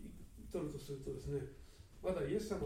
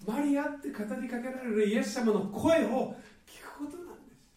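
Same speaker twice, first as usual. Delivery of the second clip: louder, higher preaching peak; fervent preaching; 7 semitones higher, 9 dB louder than usual. Real, not acted. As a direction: proclaim it with full force. Preaching climax, calling out. (力強く高らかに説く)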